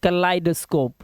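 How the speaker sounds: "kaleidoscope" sounded out with a clear eye vowel; careful kuh-LIE-duh-scope for "kaleidoscope"; long I sound. Shown as a demonstration. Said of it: "यहाँ पर आई की आवाज".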